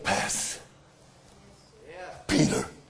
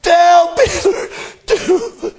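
laughing through tears; 3 semitones higher, slower than usual. Acted. Repeating the quote, moved.

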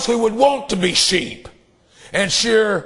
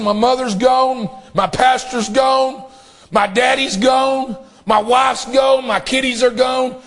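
grieving man calling out his losses; anguished cry; 3 semitones higher than usual. Retold or imitated. Preacher voicing a grieving man.

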